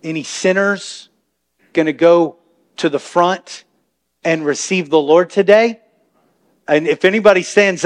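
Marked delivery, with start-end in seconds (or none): 0.0-5.8 mock pastor altar call. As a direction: draw out each phrase like a preacher. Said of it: "they sometimes say it like this".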